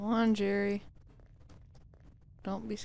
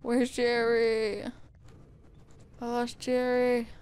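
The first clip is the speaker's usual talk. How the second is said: anxious calling out; 2 semitones higher, 3 dB louder than usual. Real, not acted. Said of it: "I'm so scared right now".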